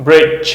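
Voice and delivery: "bridge" ending in a J sound; English word drill. Shown as a demonstration. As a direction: say "bridge" with a J at the end. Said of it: "G E หมดเสียง J".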